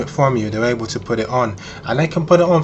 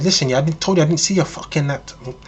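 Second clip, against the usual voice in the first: mildly raised, irritated denial; half-voiced indignant outburst; mock shouting; 3 semitones higher than usual. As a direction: imitate an angry woman without really yelling. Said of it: "she starts shouting".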